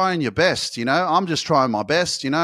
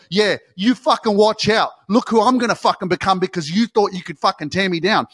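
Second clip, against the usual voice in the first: spiteful boast; 3 semitones higher, 6 dB louder than usual. Retold or imitated. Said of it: "not the motivation for you to go".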